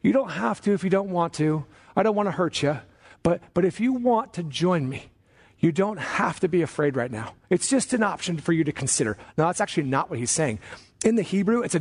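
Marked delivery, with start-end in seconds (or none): 0.0-9.2 tentative, apologetic hedging, said in mockery; mock-gentle encouragement. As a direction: parody a timid, over-polite encourager. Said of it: "That's not a, an encouragement. Like".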